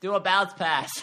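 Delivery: loud cheer with a laugh. Retold or imitated. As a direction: holler it from the stands. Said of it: "That was my signature cheer".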